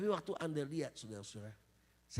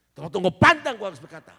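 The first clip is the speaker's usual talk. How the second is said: preaching shout; 6 semitones higher, 21 dB louder than usual. Acted. Preaching at full force.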